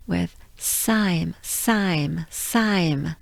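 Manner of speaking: Saim with a nasal French vowel. Shown as a demonstration. Teacher linking English I'm to Saim. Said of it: "pronounce I'm with a French accent".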